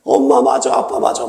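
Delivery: high, drawn-out mock whine; imitated child's sulky protest; complaining child. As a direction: grumble like a betrayed child. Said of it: "막 이렇게 불평하고".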